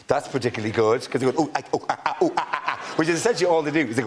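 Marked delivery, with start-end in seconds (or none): 1.4-2.9 monkey noises. Retold or imitated. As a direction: grunt like a monkey on moguls. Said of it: "Monkey impressions".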